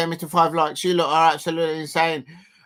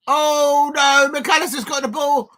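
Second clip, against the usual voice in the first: higher and louder anxious commentary; tense excitement; 9 semitones higher, 6 dB louder, slower than usual. Real, not acted. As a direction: groan at the turnover, still keyed up. Tense moment in the match.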